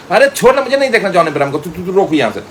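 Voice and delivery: put-on high, loud, pleading girly voice; Rachna's voice. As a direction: voice the girlfriend begging him to stop. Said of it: "अब रचना बोली". (ऊँची, जोर की मिन्नत भरी लड़की की आवाज़)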